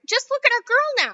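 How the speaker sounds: mother screams as Violet turns blue; screaming mother. Acted. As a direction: draw the scream out in horror. Mother crying out.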